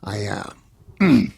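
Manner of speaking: lightly voiced talk-show host calling for help, halting and slowed; a hint of a stricken Carson, pausing and clearing his throat; Johnny Carson. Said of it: "my impression of Johnny Carson phoning nine one one".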